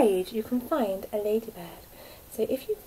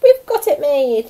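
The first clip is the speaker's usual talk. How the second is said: louder, higher triumph; gleeful thieves; 5 semitones higher, 13 dB louder than usual. A narrator's reading. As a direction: crow it out. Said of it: "The two thieves laughed".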